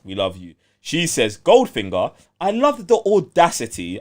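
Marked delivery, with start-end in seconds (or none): 1.4-4.0 mock posh British read, a touch deeper; lightly hammed British accent; deep English accent. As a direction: read it like a stiff English gent. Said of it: "I'm saying this in a deep English accent for you".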